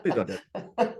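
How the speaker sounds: plea with a laugh in it; amused plea. Real, not acted. Trainer reacting to agents' slash mistake, amused pleading. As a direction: let a chuckle run under the request.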